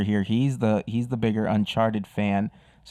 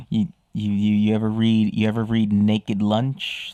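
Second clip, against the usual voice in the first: beatnik voice. Pretend. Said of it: "I'm talking like a beatnik".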